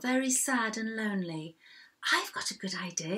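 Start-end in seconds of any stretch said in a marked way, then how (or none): 2.1-3.2 softer, lower, musing to himself; a private remark under the narration; talking to himself. A narrator's reading. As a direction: quietly think it aloud to yourself. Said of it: "he said to himself".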